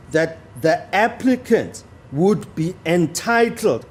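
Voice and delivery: slow reading with "entitled" given extra weight; stress on entitled. Shown as a demonstration. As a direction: press the word "entitled" to make the point. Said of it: "another emphasis on entitled".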